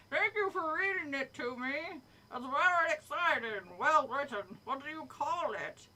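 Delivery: lightly voiced friendly monster, pitched a bit up; hint of a cartoon creature, pleased; blob monster figure. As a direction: read it as an appreciative monster friend. Monster figure in story read aloud.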